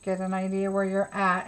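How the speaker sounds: normal talking voice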